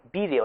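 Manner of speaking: vídeo with the stress on VÍ; Latin-style vídeo, stress on the first syllable; esdrújula. Shown as a demonstration. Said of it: "esdrújula".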